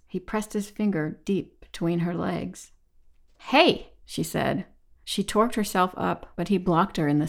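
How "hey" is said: higher-pitched, startled "hey"; sharp protest. A narrator's reading. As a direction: object sharply, voice jumping up. Fending off unwanted touch.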